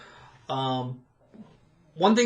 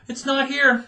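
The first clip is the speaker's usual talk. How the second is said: mock sweet reply; 11 semitones higher, 6 dB louder than usual. Retold reply to angry guest.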